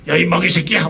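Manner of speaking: mock husky outburst at her husband; husky scolding voice. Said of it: "목소리가 막 허스키해가지고요".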